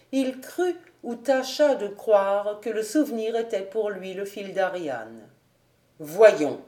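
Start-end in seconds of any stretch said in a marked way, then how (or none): 6.0-6.6 half playful, half serious. A narrator's reading. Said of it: "d'un ton moitié enjoué, moitié sérieux".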